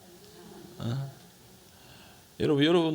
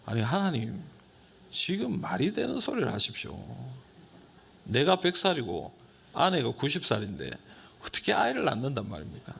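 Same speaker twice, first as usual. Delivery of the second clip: mocking disbelief. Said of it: "비웃는 거 아니에요".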